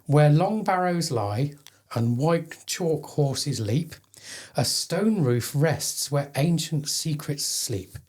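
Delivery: slow, measured poetry recital; poem reading. Acted. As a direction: read it like a solemn verse. Reads a poem aloud.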